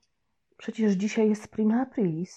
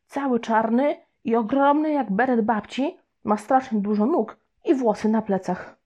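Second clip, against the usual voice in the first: put-on boy lying; 4 semitones higher than usual. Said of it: "kłamałem jak z nut".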